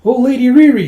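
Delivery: high, loud mock dismay; acted wail of dismay; exasperated fretting. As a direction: fuss over her. Acted fretting over wayward lady.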